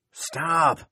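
sharp high cry of alarm. Acted. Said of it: "Fern cried".

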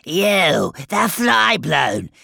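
high, loud, drawn-out call; single out workers at full yell; slow, high taskmaster's shout. A narrator's reading. Overseer shouting at hauling demons.

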